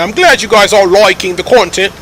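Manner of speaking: deliberate Australian accent on every word. Shown as a demonstration. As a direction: say it like an Australian, vowels rounded. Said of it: "that's an Australian accent ... that's what I'm doing there".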